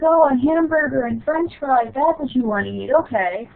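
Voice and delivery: high and eager, as if it suddenly makes sense; grandmother's realization. Retold or imitated. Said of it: "she was like".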